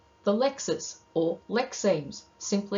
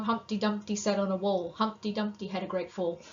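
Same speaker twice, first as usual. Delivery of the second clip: put-on lightly sing-song recitation of a childhood rhyme; even, bouncing rhyme rhythm; rhythmic nursery rhyme. Shown as a demonstration. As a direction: recite it with a steady beat. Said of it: "you've got some rhythm there".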